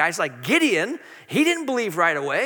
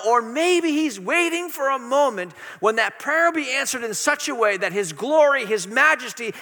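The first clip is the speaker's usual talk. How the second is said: rising, fervent preacher's push; preaching; 3 dB louder than usual. Acted. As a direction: preach it with passion to the congregation. Preaching builds with passion.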